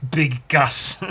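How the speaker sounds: amused. Real, not acted. Amused by his misspelling.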